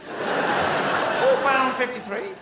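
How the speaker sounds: high, slow parrot squawk. Acted. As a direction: drag it out like a parrot repeating itself. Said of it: "a bird on your shoulder going".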